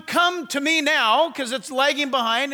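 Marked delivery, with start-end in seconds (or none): 0.0-1.3 mild call. Retold or imitated. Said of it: "I was asking one".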